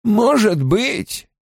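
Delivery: slow, noncommittal, worn-out reply; weary. A narrator's reading. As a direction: answer with drawn-out weariness. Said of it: "сказала седая женщина с прежней усталостью".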